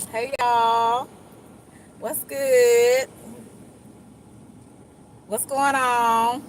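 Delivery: smiling, slightly lifted drawn-out greeting; feeling good. Acted. Greeting folks on a good day, relaxed smiling hello. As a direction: greet friends with an easy, genuine smile. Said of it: "it's 'cause I'm feeling good that day".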